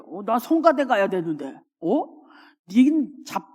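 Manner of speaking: a touch of heated sarcastic comeback, half laughing; mildly mock-fierce scolding; talking back to a sister in a quarrel; harsh retort. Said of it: "이런 말을 매우 과격하게".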